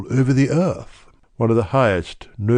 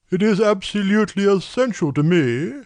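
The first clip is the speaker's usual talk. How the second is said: much higher, deliberate voice of a great nobleman; brusque nobleman; 11 semitones higher than usual. A narrator's reading. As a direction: push through a distasteful errand. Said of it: "with the air of a man who wishes to hurry quickly through a disagreeable task".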